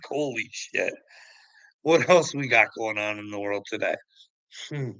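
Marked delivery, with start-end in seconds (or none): none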